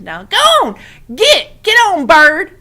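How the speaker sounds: high, loud shout to shoo. A narrator's reading. Boy shoos the crow off the rabbit, loud high shout. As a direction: shoo the bird away loudly. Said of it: "flapped his arms and shouted".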